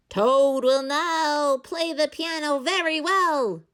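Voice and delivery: high, slow, drawn-out announcer call; strange far-off announcer. A narrator's reading. A strange voice announces Toad to the theater, slow and grand. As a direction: present Toad like a grand showman. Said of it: "the strange voice said".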